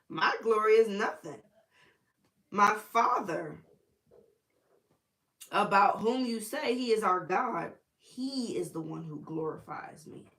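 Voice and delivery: emphatic, loud opening easing to slow and measured; preacher quoting scripture; scripture read aloud. Acted. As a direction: declare the verse with weight.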